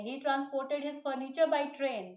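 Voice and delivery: very slow, stress on furniture; slow example read. Shown as a demonstration. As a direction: dictate slowly, leaning on furniture. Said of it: "तो यहाँ पर क्या लिखा मैंने". (धीमे उदाहरण पढ़ना, furniture पर ज़ोर)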